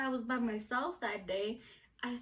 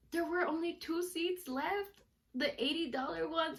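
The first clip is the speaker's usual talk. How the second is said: excited; 5 semitones higher than usual. Real, not acted. Excitedly retelling lucky ticket find.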